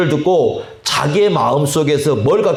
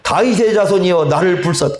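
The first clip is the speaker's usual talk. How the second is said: crying out louder; 4 semitones higher than usual. Shown as a demonstration. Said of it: "더욱 소리를 지르면서".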